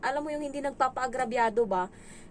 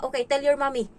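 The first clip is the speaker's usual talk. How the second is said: firm voice; 4 dB louder than usual. Retold or imitated. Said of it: "Gantong boses, guys, ganto".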